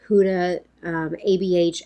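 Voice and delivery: usual speaking voice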